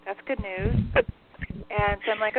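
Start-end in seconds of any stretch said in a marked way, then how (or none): 0.0-0.7 dry, relayed smart-aleck answer; mock good news with light sarcasm; lightly sarcastic, imitating a wisecracker. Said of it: "he's taking a really sarcastic tone".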